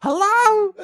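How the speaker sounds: high, slow redneck holler; redneck God. Acted. Redneck God calls from the shower, high drawl. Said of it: "It's some redneck".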